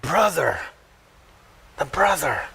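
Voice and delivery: weight on "brother", falling; stress on BROTHER. Shown as a demonstration. Showing Mary's emphasis, stress on "brother". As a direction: set "brother" down firmly with a fall. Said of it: "places the emphasis on".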